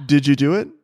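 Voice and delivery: mimicking the question through laughter; laughing mimicry. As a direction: laugh while parroting it back. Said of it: "That's what I was literally about to say".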